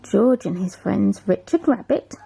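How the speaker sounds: lively picture-book read-aloud; reading to a child. Acted. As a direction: read it like a bedtime story.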